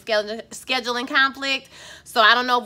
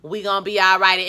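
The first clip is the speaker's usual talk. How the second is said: tender forgiveness; 4 semitones lower, 3 dB quieter than usual. Retold or imitated. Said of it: "You just be like".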